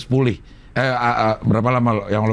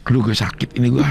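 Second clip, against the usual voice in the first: laughing through pain. Real, not acted. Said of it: "Ketawa sakit".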